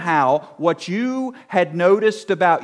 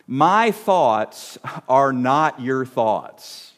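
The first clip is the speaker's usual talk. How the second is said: slow quoted scripture; 4 semitones lower, much slower than usual. Retold or imitated. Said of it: "God tells us in Isaiah".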